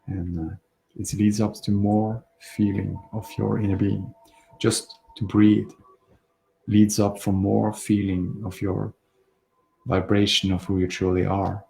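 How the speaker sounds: calm, unhurried breathing guidance with pauses; relaxed meditation voice, slightly hushed, phrase by phrase; guided meditation. Real, not acted. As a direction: gently guide listeners through their breathing.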